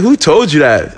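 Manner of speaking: mildly heated retold question; retold pissed-off. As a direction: act out getting tight, demanding an answer. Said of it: "I start getting tight".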